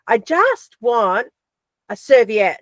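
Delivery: "I just want a serviette" drawn out slowly, each word spaced; slow, insistent. Retold or imitated. Girlfriend asking overseas for a serviette again, slow and insistent. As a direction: spell it out slowly, losing patience. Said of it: "she'd go".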